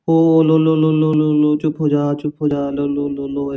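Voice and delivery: acted parent shushing a wailing baby; soothing a crying baby. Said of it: "जो बच्चा रोता है तो कैसे कहते हैं".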